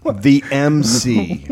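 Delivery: slow, mild mock yell; retold scream. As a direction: draw it out like a half-hearted holler. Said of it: "Screams it, not, like, quietly".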